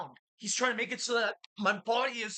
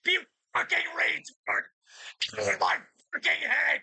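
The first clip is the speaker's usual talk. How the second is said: high, loud furious yell; angry yell; 5 semitones higher, 3 dB louder than usual. Real, not acted. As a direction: scream at the voice in your head. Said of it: "Yell at it, Alex".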